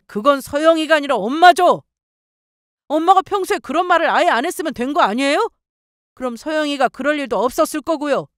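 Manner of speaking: pent-up anger. A narrator's reading. Husband defends his sick wife to his mother, indignant. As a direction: pour out stored-up grievances. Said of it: "그간 쌓였던 것들을 마구 쏟아냈습니다".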